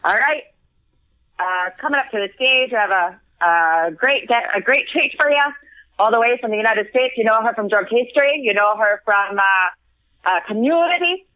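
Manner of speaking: hyping up the act, lightly mimicking the host; a touch of a showbiz compere, mostly her own voice; imitating the MC. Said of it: "he said".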